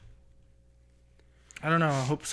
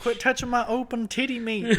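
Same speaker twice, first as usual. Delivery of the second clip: higher, laughing quoted protest; mock complaint; 8 semitones higher than usual. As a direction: giggle through a mock protest. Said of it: "She's like".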